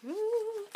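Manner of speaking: high, drawn-out ooh; teasing, suspenseful ooh; intrigued ooh. Real, not acted. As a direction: react to a cliffhanger with a high "ooh". Reacts to the cliffhanger she read.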